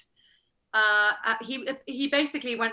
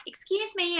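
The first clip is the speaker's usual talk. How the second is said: high, mock-American "excuse me"; obnoxious American actor; 8 semitones higher than usual. Actress on set throwing a hissy fit, obnoxious American. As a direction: imitate an entitled American actress, pitched way up. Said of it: "really obnoxious".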